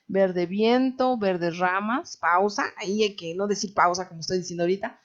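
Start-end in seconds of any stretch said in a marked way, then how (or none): 0.0-2.1 "Verde viento" drawn out slowly, then a stop after "ramas"; measured line of poetry ending on a held "ramas"; verse with end pause. Shown as a demonstration. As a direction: recite it as one verse, waiting after "ramas". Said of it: "esperar un poquito para que se escuche".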